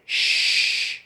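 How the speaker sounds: whispered shh; hushing. Retold or imitated. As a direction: hush them gently. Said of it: "He's saying".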